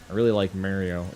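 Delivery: "Mario" as MARE-ee-oh; mispronounced Mario. Retold or imitated. Mimicking fans who misname the game, "Mario" as MARE-ee-oh. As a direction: say "Mario" with the vowel of merry. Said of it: "Stop saying it like that".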